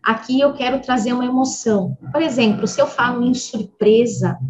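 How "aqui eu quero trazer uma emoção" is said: usual speaking voice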